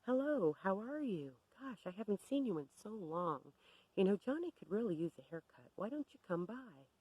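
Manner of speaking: imitating a fake-friendly hello; acting all human. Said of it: "she's acting all human".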